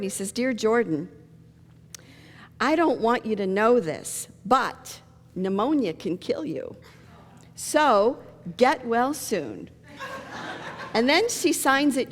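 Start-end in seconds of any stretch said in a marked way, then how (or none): 0.3-9.7 a slow, careful reading of the letter. Shown as a demonstration. Preacher reads a child's get-well card aloud, slowly. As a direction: spell out a child's note word by word. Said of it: "It says, his son's name is Jordan".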